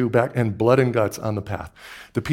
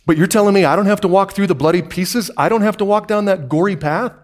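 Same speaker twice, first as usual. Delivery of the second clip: amazed disbelief; 8 semitones higher, 6 dB louder than usual. Retold or imitated. Christians' amazed relieved question.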